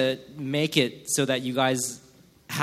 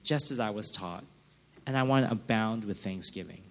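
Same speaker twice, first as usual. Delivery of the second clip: prayerful; 2 semitones lower than usual. Pretend. Voicing a believer's quiet prayer.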